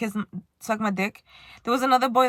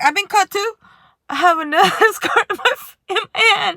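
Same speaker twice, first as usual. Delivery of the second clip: higher, louder eager sharing; 8 semitones higher, 7 dB louder than usual. Retold or imitated. Showing the boy her own scars, eager and louder. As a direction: bond with him over scars.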